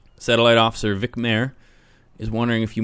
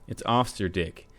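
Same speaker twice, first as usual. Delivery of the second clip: higher, words breaking into laughs; talking through laughter; 4 semitones higher than usual. Acted. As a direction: try to get the words out while laughing. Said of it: "He tries to speak through laughter".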